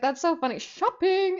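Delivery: mock someone's squealed "shopping" in amusement; mimicking a squeal. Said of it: "like, mimicking".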